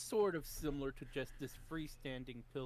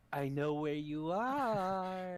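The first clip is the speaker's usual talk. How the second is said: slow, louder and menacing; 6 semitones higher, 7 dB louder, much slower than usual. Shown as a demonstration. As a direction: draw it out like a threat. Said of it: "trying to be friendly or more like".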